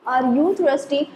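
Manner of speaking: "Are you thirsty" with YOU stressed, tone rising; rising question intonation. Shown as a demonstration. Teacher repeating the example for learners, rising intonation. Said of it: "the tone rise".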